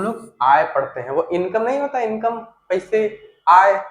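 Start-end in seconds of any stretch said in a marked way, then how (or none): 3.5-3.8 आय said loud and sharp; stressed आय. Shown as a demonstration. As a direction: punch the word आय like income. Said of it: "वही वाला आय है ये". (ज़ोर देकर आय)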